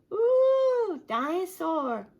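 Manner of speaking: high, loud delighted squeal; excited toddler. Acted. Little George sees the dinosaur, squealing with delight. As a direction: gasp at the toy in wonder.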